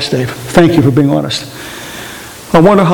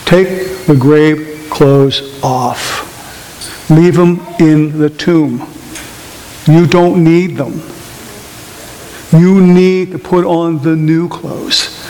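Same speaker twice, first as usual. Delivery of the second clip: slow emphatic urging; much slower than usual. Real, not acted. Slow urging sermon close.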